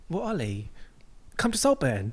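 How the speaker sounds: soft, posh British invitation; understated upper-class British accent. Acted. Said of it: "they're, they're very posh".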